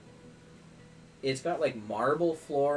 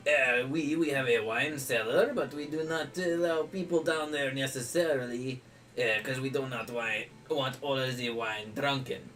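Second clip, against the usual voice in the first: put-on lightly French-accented innkeeper; a hint of French, amused; mock French accent. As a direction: innkeeper explains the free room but guards the wine cellar in mock French. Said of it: "butcher my French accent".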